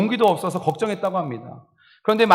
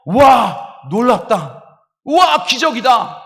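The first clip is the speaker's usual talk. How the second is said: amazed wow; 5 semitones higher, 5 dB louder, much slower than usual. Shown as a demonstration. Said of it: "라고 감탄해 보십시오".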